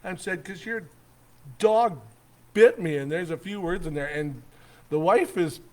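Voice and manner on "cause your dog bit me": higher, mild mock shout; retold screaming. Camper answering the dog owner's accusation, retold shouting. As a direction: fire it back, building louder to the end. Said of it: "I am screaming at this guy".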